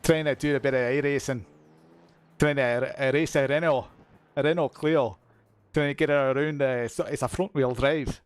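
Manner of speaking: tentative put-on Scottish accent. Shown as a demonstration. Streamer attempting it while sim racing, Scottish accent. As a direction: try out a Scots accent while thinking aloud. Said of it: "Gotta think about the Scottish accent".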